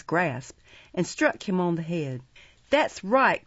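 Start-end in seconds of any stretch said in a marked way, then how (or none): 2.7-3.4 higher, mildly raised call; called approval. A narrator's reading. Looker-on from a garret window, calling approval. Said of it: "cried a looker-on from a garret window".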